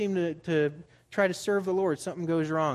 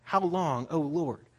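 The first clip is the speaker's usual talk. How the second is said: crying out to God; 3 dB louder than usual. Retold or imitated. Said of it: "do people cry out".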